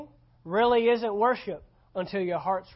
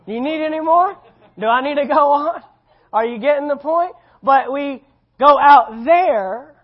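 pressing shout; 6 semitones higher, 11 dB louder than usual. Real, not acted. Pastor pressing the point loudly.

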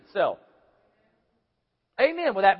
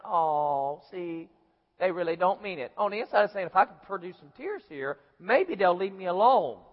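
low, softer knowing aside; inner thought; 4 semitones lower, 5 dB quieter than usual. Retold or imitated. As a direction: think it under your breath. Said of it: "We're thinking".

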